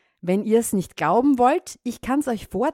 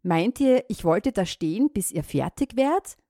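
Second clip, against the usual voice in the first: raised, scolding rant; 3 semitones higher than usual. Acted. Farmer scolding the frogs, exasperated rant. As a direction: tell them off, exasperated. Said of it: "schimpfte er die Frösche aus".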